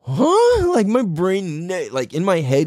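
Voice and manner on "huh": mock-stunned high-pitched "huh"; baffled surprise. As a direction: act out total disbelief, pitch leaping up. Retold shock at unexpected voice.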